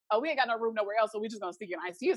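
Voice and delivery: quick, casual brush-off; imitating staff being breezily dismissive; offhand excuse. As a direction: rattle it off like no big deal. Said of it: "they made it seem like".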